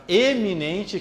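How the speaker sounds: EMINENTE with a high, stressed opening E sound; clear initial E. Shown as a demonstration. Teacher separating it from iminente, EMINENTE with a clear high E. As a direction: lift and stress the first E of EMINENTE, not an I. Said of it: "Então é com E".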